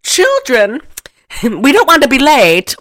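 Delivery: hammed-up movie aunt calling the children; Aunt Martha. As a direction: lift the pitch and call out to the children, breaking into a laugh. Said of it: "Aunt Martha".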